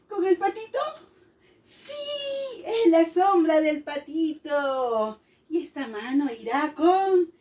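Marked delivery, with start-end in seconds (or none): 1.6-5.2 put-on children answering. Teacher voices pupils confirming the match, sing-song. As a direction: stretch the first word like an eager class.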